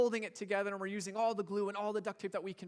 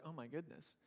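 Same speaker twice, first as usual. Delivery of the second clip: disbelief; 2 semitones lower, 7 dB quieter than usual. Retold or imitated. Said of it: "like, disbelief where they're like".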